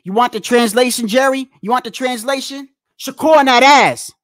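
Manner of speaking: loud, mocking retelling of Jerry's taunt; mock loud quote. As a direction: bark it out like you're quoting him to ridicule him. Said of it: "he literally just said".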